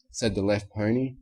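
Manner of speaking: plain reading voice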